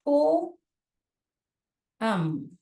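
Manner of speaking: पोएम stretched very slowly, both syllables drawn out; drawn-out pronunciation. Shown as a demonstration. Teacher modelling पोएम slowly for her students, drawn out. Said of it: "इसको कैसे pronounce करते हैं?".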